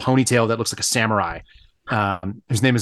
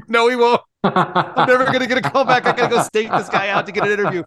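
laughing; 10 semitones higher than usual. Retold or imitated.

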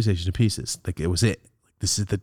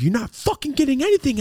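high-pitched retold refusal; angry mother. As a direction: forbid it heatedly, as the mother. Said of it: "she's like".

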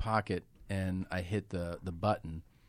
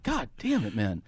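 exasperated; 3 semitones higher than usual. Retold or imitated. Friend jealous, exasperated.

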